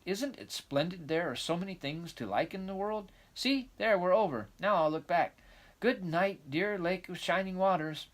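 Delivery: put-on lively, eager young girl; excited girl voice. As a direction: chatter on like a dreamy child. Anne crossing the bridge.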